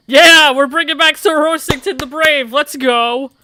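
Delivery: loud, high rallying cry; loud hype-man announcement; hyped. Acted. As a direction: pump everyone up for Sir Horsington. Hyped announcing the horse's name.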